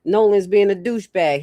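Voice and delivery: mock call to a friend in trouble; urgent mock warning. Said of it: "First, he was like".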